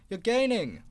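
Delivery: guard yelling encouragement to Percy; yelled. Acted. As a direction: cheer Percy on. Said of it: "he yelled".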